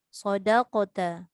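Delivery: "sodaqota" slow with a clear qaf; slow careful model. Shown as a demonstration. Ustaz models the correct word for his students, slow. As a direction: spell out "sodaqota" syllable by syllable. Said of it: "contoh, sodaqota".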